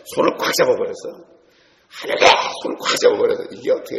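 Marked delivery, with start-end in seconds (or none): 1.9-2.3 hallelujah shout. Retold or imitated. Grabbing a big man's hand.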